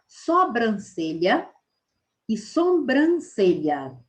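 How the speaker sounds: sobrancelha said carefully, drawn out; right vs wrong spelling said. Shown as a demonstration. Teacher contrasting two spellings aloud, slow and careful. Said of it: "Qual delas está correta".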